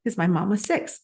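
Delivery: tearful, high-pitched voice; choking up, pitch climbing as tears come; about to cry. Real, not acted. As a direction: fight back real tears while speaking. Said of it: "oh God, I'm gonna cry".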